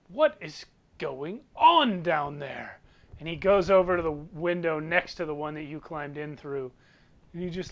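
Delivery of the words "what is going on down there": slow, haughty question; arrogant rich man. Acted. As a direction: drag it out with disdain for the commotion below. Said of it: "with an arrogant sort of air to his voice".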